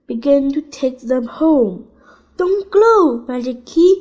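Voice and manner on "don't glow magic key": high, loud plea; pleading cry. Acted. Biff pleads with the glowing key, high and loud. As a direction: beg the key to stop glowing. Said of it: "cried Biff".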